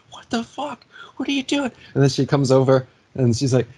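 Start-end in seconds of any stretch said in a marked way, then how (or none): 0.1-1.7 high-pitched mock shriek at the other driver; imitated scream. Angry driver screaming from the road, imitated high shriek. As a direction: shriek it the way she did, much higher. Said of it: "screaming at us".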